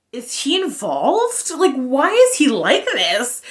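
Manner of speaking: slow, drawn-out questioning with swooping pitch; mock bewildered questioning; puzzled disbelief. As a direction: stretch out each question, baffled. Acting out her puzzled reaction.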